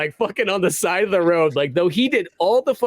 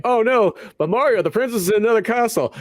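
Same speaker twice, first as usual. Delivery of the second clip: mock princess voice; 7 semitones higher than usual. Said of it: "Princess Peach is like".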